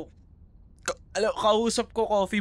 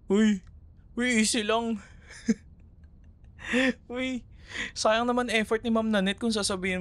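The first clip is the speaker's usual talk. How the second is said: playful warning; 8 semitones higher than usual. Acted. Telling friend to take it easy.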